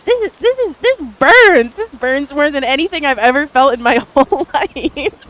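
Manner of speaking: high loud mock cry of pain, laughing at the end; inner yelp of pain. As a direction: yelp at how much it burns, hammed-up. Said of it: "in my head, I'm thinking".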